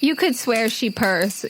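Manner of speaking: normal talking voice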